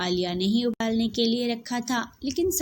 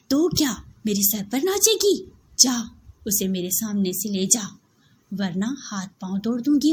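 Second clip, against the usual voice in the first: loud, harsh threat; threatening retort; 3 dB louder than usual. Acted. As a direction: snarl back at the younger wife. Yasmin threatens back. (धमकाती जेठानी)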